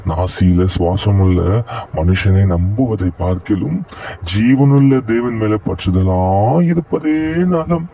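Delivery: slow, measured Bible verse reading; a Sunday school teacher quoting scripture; solemn scripture recitation. Acted. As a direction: recite the verse slowly and reverently. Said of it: "வசனம் சொல்லுது".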